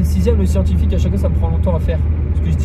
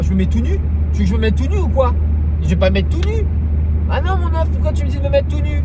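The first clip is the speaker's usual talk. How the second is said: rising mock outrage; 9 semitones higher than usual. Mock outrage at nude suggestion.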